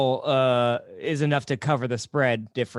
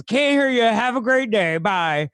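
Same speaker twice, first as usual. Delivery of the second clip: higher-pitched retold call, dropping on the goodbye; mock cheery call; 6 semitones higher, 3 dB louder than usual. Friend calling back to a hiker on the trail, mock cheery. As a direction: imitate brushing someone off from a distance.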